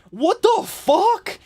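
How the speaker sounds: reacting to the leaked video, high and slow; shocked squeal. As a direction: squeak it out in disbelief. Retold shock at Snapchat video.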